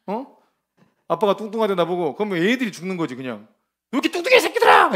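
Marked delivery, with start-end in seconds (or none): 3.9-5.0 put-on high, loud, fast yelling at the kids; mother yelling at her kids over being called fat, furious shout; furious mother's yell. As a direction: scream it like a mother losing it at her children. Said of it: "이러면서".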